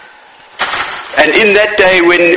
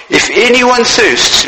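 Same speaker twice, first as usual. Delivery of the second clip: "If anyone thirsts" lifted higher and stretched out slowly; raised slow cry; 7 semitones higher, slower than usual. Retold or imitated. Preacher echoing Jesus' call to the crowd, raised and slow. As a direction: call it out slowly, pitched up high. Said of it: "he cries".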